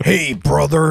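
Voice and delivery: big, pro-wrestler promo voice. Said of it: "Brother Hulk Hogan".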